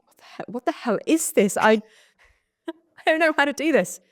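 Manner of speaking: high, laughing, frantic disbelief; overwhelmed panic. Retold or imitated. Newcomer in a sharing circle, high frantic laughing panic. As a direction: squeak it out, laughing at your own panic. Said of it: "I'm like".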